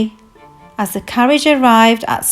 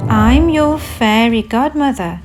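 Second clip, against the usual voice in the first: lightly voiced kindly godmother; a touch of gentle reassurance. Fairy godmother introducing herself to Cinderella, kindly. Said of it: "she said kindly".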